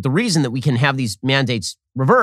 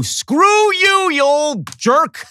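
hammed-up scornful retort, pitched way up; mock outraged yell; 14 semitones higher, 3 dB louder, much slower than usual. Real, not acted. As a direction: spit it out in exaggerated disgust, stretching the words. Mocking outburst at Fauci's quote.

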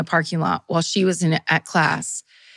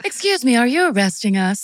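polite mom voice; 4 semitones higher than usual. Retold or imitated. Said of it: "I have to give people different voices".

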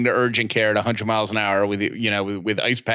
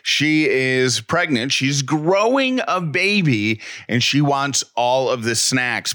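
measured, emphatic sponsor pitch; podcast ad read. Acted. Husband pitching grocery delivery to listeners, ad-read style. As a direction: sell it like a scripted host endorsement.

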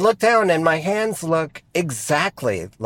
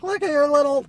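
imitating dad; 12 semitones higher, faster than usual. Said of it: "he's like".

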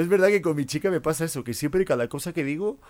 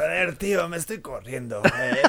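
mock Castilian dubbed climax; Spanish porn dub; 2 semitones higher, 3 dB quieter than usual. Comedian parodies dubbed porn, mock Spanish accent. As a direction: ham it up as a Spain-Spanish adult-film dub. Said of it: "películas porno en español".

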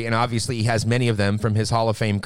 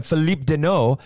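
French pronunciation attempt. Shown as a demonstration. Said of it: "I've been working on my, my French tongue".

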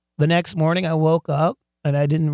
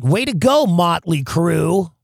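loud mock cheer, the band name drawn out slowly; a loud, sarcastic little victory cry; 5 dB louder, slower than usual. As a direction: cheer himself on with irony.

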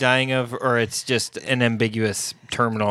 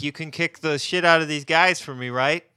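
imitating Mark; 5 semitones higher than usual. Voicing Mark as pleading hanger-on.

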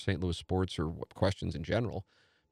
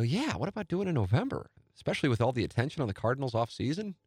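high, rising delighted echo of a good idea; suddenly won over, repeating it eagerly; excited echo; 5 semitones higher than usual. Retold or imitated. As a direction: catch his partner's idea and throw it back with glee. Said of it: "I go".

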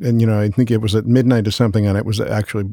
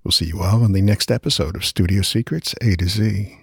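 announcer voice. Pretend. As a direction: announce it like a fighting game MC. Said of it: "Hey, Bob, why don't you say it?".

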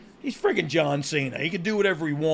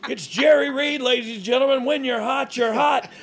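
rising to shouted higher play-by-play; play-by-play commentary; 6 semitones higher, 3 dB louder than usual. Acted. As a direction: build to a frantic wrestling call.

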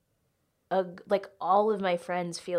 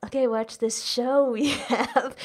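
put-on higher, brightly pitched little-kid announcement; eager kid announcing; 5 semitones higher, 4 dB louder than usual. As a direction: pitch the show to the older girls like an eager kid. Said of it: "we'd be like".

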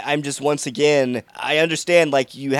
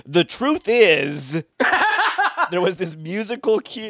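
worked up; 7 semitones higher than usual. Retold or imitated. TV character about to reveal all, mock worked up. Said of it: "she got all worked up".

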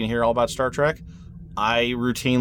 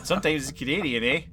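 put-on Canadian accent; 3 semitones higher, faster than usual. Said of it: "I can do that accent".

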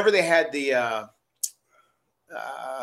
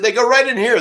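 excited; 9 semitones higher, 9 dB louder than usual. Retold or imitated. Owen retold again.

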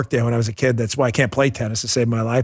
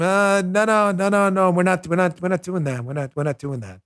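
mock hasty refusal; 4 semitones higher than usual. Backing away from the costume idea, mock hasty denial.

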